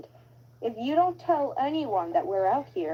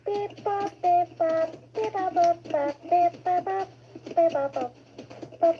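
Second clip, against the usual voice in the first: beeping robot chatter; old rusty robot; 6 semitones higher than usual. Acted. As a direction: mechanical beep-bop babble. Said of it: "an old robot that helped me".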